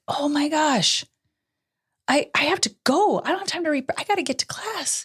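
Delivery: high, rushed frustrated outburst; flustered mom running late; heated. Retold or imitated. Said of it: "I felt myself get heated".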